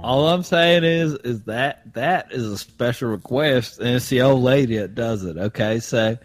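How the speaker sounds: playing Frank, a good ol' boy from Augusta; Augusta Southern accent. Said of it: "your Southern accent".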